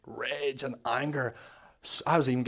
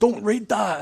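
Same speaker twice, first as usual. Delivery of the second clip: raised, loud inner protest; inwardly raging outburst; 8 semitones higher, 9 dB louder, slower than usual. Retold or imitated. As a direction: act out raging in your head, high and loud. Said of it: "inside, I was raging".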